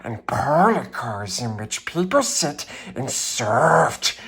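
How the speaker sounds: proud passenger engine refusing the toys; snooty engine. Acted. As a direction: sniff down at the little train. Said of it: "the shiny new engine snorted".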